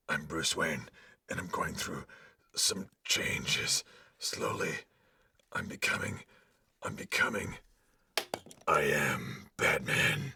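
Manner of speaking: gravelly Batman whisper. Acted. Actor reads Batman line.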